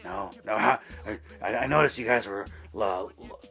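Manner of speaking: lightly voiced wheezy chain smoker, out of breath; a hint of a breathless smoker calling the store; chain smoker Jeff. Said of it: "Jeff kinda sounded like this".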